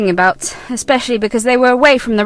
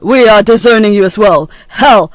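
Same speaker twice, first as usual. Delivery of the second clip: cold anger; 5 semitones lower, 3 dB louder than usual. Acted. Son disowns mother.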